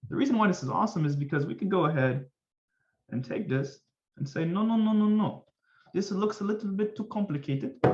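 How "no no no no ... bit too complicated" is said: high-pitched playful protest; mock objection. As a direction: object in a higher put-on voice. Acting out objection to complicated notation.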